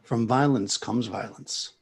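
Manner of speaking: slow, measured calm, lightly acted; lightly voiced calm old priest; calm old man. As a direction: deliver it unhurried, like a serene elder. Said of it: "just kinda calmly looks at Joel".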